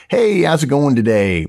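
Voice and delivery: breezy manager popping in, all smiles; upbeat hello from a manager in a good mood; happy mood. Retold or imitated. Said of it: "walks in in a happy mood".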